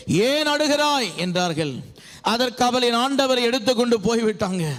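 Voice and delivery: projected, declaimed Bible reading; scripture reading. Acted. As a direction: read the verse out to a congregation. Reads scripture aloud. (வேத வசனத்தை உரக்க வாசிக்கும் நடை)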